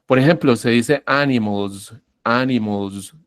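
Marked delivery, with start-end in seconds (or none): 1.1-1.9 "animals" with a buzzing z at the end. Shown as a demonstration. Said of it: "estoy diciéndolo con una Z". 2.2-3.1 "animals" ending in a voiced z. Shown as a demonstration. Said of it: "estoy diciéndolo con una Z".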